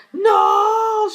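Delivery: huge high shrieking cry of No; anguished scream. Acted. Villain screaming as the mirror is smashed. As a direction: scream as you shatter.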